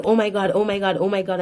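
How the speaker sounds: retold panic; mock panic. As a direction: imitate a coworker's alarm, mildly. Coworker panics as she collapses.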